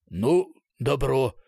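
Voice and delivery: a content boss drawling his okay; pleased colonel. A narrator's reading. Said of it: "полковник был явно доволен". (довольный полковник, медленно)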